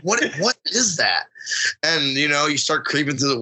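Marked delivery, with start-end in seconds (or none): 0.0-1.2 mock bewilderment, pitch swooping up by the end; baffled retold reaction. Hunter retelling hearing a strange bird noise, mock baffled. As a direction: act out puzzled disbelief at a noise.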